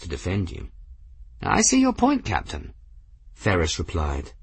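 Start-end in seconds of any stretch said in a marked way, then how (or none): 1.4-2.7 put-on high, airy eccentric old gentleman; old man voice. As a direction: play a whimsical elderly wizard. Narrator voices Ferris.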